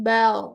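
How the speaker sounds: ব্যাও with a thick, rounded r; heavy r. Shown as a demonstration. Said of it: "মোটা হয়ে যাবে". (ব্যাও মোটা উচ্চারণে)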